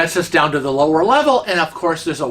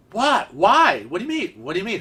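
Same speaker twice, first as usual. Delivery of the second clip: quick run of puzzled questions, swooping pitch; baffled questioning; 3 semitones higher than usual. Retold or imitated. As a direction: act out being caught off guard. Acting out her baffled questions.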